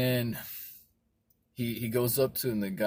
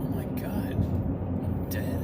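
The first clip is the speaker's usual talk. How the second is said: whispered horrified realisation; voiceless, awestruck acting; stunned whisper; slower than usual. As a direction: whisper it as the truth sinks in. Ghost realises he is dead.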